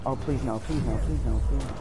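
anguished denial. Real, not acted. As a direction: beg it over and over, panicked. About to die in game.

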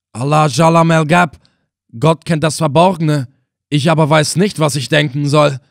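the freed prisoner crying out, stunned by mercy; exclaiming. Acted. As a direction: burst out in bewildered astonishment. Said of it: "rief er aus".

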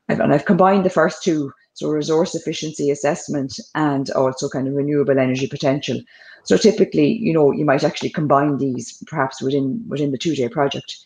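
slightly hoarse, croaky throat. Real, not acted. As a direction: speak through a croaky throat. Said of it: "croaky this week".

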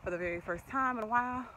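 breathless after racing my daughter; out of breath. Real, not acted. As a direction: talk while catching your breath. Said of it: "I'm out of breath 'cause I was just racing".

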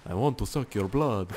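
lightly voiced vampire; a hint of a stage vampire; Dracula. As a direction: slip slightly into a vampire voice. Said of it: "turned in, like, Dracula for a second".

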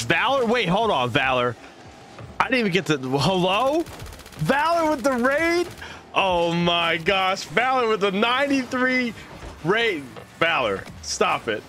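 high, thrilled greeting with squeaky peaks; excited raid welcome. Real, not acted. Streamer welcoming Valor's raiders in a high, thrilled voice. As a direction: gush over the raiders arriving.

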